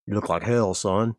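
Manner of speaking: put-on lightly gravelly old farmer; a touch of gravel in the throat. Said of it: "he says in a gravelly voice".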